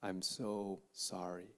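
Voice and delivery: slow, a touch of tears, lightly voiced; mother's tearful apology. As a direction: gently retell a dying mother asking forgiveness. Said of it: "she started crying".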